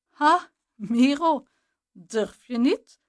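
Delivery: loud, slow jeering call; taunting call. A narrator's reading. Jasper calling out to Miro at the classroom door, loud and taunting. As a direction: bait him like a bully at the door. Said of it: "riep Jasper".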